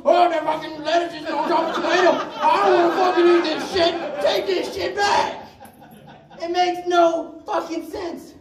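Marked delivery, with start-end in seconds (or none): 0.0-5.5 fast, laughing complaint, slowing at the end; mock angry customer. Cook imitates a picky customer complaining, mock whiny voice. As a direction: play the fussy customer sending food back. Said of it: "the customer was gonna fucking look".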